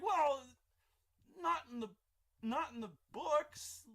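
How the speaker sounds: high, loud, slow objection; indignant protest. Retold or imitated. Crazy Mike objecting that the books lack flamethrowers, high indignant. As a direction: dig in on the rules.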